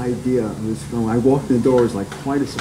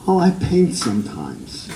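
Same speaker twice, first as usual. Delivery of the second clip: offhand reply, starting higher and falling away; casual; 5 semitones higher than usual. Retold or imitated. Artist answering his accountant's question about making work, casual. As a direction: toss it off casually, as if it hardly matters. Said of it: "he casually says".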